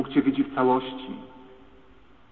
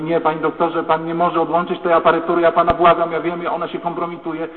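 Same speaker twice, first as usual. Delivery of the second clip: raised, urgent begging; desperate pleading; 4 semitones higher, 6 dB louder than usual. Retold or imitated. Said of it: "lekarka w szpitalu mówi". (błagalny, podniesiony głos)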